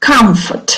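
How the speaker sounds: comfort stressed on COM, the first syllable. Teacher giving a word for students to repeat, stress on first syllable of comfort. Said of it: "Say it again".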